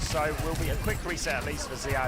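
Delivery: esports caster. Real, not acted. Live play-by-play casting.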